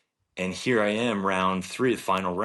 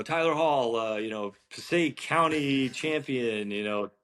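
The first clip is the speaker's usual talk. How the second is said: mock announcer; 5 semitones higher than usual. Golfer mocks his own tee introduction, as a half-laughing announcer. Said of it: "then they announced me".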